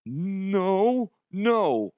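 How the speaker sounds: high, whimpering, scared confession; panicked intern. Retold or imitated. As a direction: whine it out like he's about to wet himself. He's about to piss himself.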